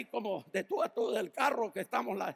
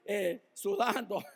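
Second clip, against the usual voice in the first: breaking into a chuckle; slow, then tipping into laughter; amused; slower than usual. Real, not acted. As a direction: let a laugh slip into the words. Jokes he is sweating, laughing.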